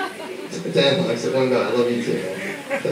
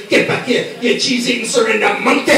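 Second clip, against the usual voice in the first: put-on Scottish accent; 4 semitones higher than usual. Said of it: "So I changed up to Scottish".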